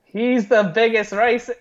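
openly ironic accusation; sarcastic. Real, not acted. Host mocking the Lincoln racism claim to a co-host, sarcastic. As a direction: lay on the sarcasm so it is noticed. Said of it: "can you get the sarcasm in my voice".

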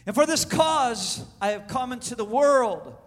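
measured, drawn-out proclamation; solemn declaration. Acted. Jesus answering Pilate about his cause, lightly acted solemn declaration. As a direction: stretch the key words with weight.

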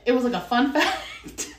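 a fun fact broken by a real laugh. Real, not acted. Laughing at her own accent, a real chuckle. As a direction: laugh through the word fun.

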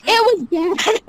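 laughing. Real, not acted. Laughing at own failure.

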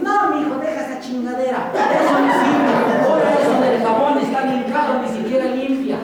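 a hint of a nagging mom dismissing the idea; mildly mocking mother's scold; inner voice as mom. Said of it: "se va a disfrazar de tu mamá".

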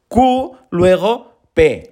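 ordinary delivery

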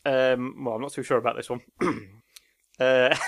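ordinary delivery

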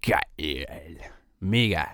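awed whisper. Real, not acted. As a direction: breathe it out in awe. Awed whisper about pizza. (ehrfürchtig geflüstert)

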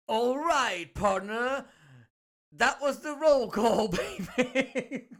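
big, loud, stretched-out hype call; hyped announcer outro. Acted. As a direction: draw out roll call like a showman.

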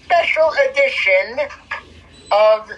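podcast host intro. Acted. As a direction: open the show like a broadcast. Hosts a podcast opening.

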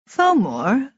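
composed otherworldly voice, rising at the end; calm elf. A narrator's reading. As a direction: address an enemy with cool composure. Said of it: "said the Svartalf calmly".

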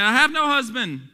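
high, loud read-aloud reply; emphatic preacher quoting the verse; formal scripture answer. Acted. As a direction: declaim it as Bible dialogue. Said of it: "And the woman answered him".

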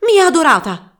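high, loud cry of adoration; passionate cry. Acted. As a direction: cry out to his beloved. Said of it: "gridò".

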